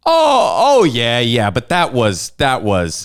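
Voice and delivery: mock flustered realization; caught-out surprise. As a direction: squeak the first oh, then backpedal. Caught out, retold reaction.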